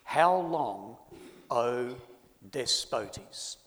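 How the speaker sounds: quoted plea, loud at first, then easing; mild loud cry. Retold or imitated. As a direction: cry it out with measured restraint, pausing between phrases. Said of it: "they cry with a loud voice".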